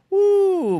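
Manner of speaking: high, loud whoop of glee; excited woo. Pretend. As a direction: whoop like a party just started. Celebrates bachelor week.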